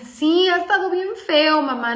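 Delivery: imitating a daughter on the edge of tears; high-pitched, mildly weepy admission; slightly tearful. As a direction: give a small mock-crying complaint to mom. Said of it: "Llora tantito".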